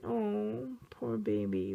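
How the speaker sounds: soft imitated cooing pity; mock sympathy. Adults pitying a crying child in trouble, mock sympathy. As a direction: gently mimic a sympathetic adult. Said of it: "many adults will feel sympathy".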